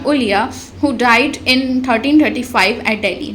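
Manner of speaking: slow, deliberate dictation of notes; slow note reading. Acted. Teacher reads notes aloud to students, slow dictation. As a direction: read it out word by word for students.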